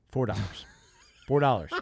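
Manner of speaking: rising outrage at a tiny sum; incredulous. Retold or imitated. Repeating the price in disbelief.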